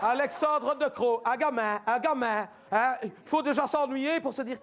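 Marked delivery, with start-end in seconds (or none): 0.0-1.2 slow, spelled-out scornful name; sneering at the minister; mocking name. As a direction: lean on each part of the name.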